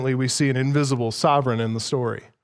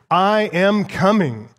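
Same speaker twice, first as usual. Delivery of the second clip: "I am coming" slow, each word weighted; emphatic; 2 semitones higher, slower than usual. Shown as a demonstration. Preacher stressing the king's promise to his servants. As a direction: land hard on "coming". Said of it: "making it emphatic here".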